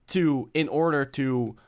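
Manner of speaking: talking through hiccups; hiccuping. Real, not acted. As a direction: hiccups breaking the words. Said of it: "I'm already hiccuping".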